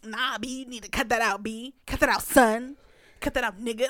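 mock telling off. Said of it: "if you be like".

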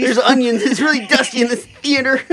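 hammed-up choked-up excuse; mock teary excuse. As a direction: squeak a tearful alibi through laughter. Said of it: "pretend excuse for tears".

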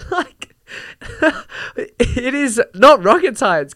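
slow, high and loud through a laugh; half laughing, half crying in disbelief; laughing exasperation. Real, not acted. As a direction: it is not rocket science, laughed out slowly.

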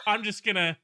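put-on laughing teen quote. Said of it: "until she was like".

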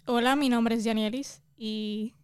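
slow, tentative try at a neutral Spanish accent. Shown as a demonstration. Host dared her to speak neutral, slow neutral Spanish accent. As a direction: attempt a neutral Latin American Spanish accent, slowly. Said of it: "te reto a que me hables acento neutro".

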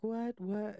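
high-pitched retold disbelief; mock startled. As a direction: act out a baffled double-take. Retold startled reply to confession.

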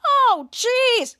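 high exclamation of horror; mock dismay. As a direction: cry out appalled, play-acting. Retold horrified reaction.

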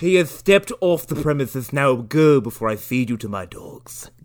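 lisped mock threat from a butler; lisping butler. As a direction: send them packing in butler voice. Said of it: "this cocaine fiend of a butler".

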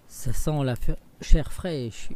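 loud booming ogre bellow; ogre's roar. Acted. Ogre comes home smelling fresh meat, roaring. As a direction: roar it out, sniffing for children. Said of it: "hurla l'ogre de sa grosse voix".

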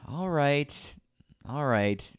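big sigh, then grudging agreement; resigned giving-in. Retold or imitated. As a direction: act out a worker reluctantly giving in. Staffer gives in, acted.

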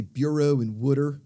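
"Bureau" with a long O, "Wooder" for water in Philly accent; Philly pronunciation. Shown as a demonstration. Host explaining Philly speech, Philly-accented "Bureau" and "Wooder". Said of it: "Philly's got this long O".

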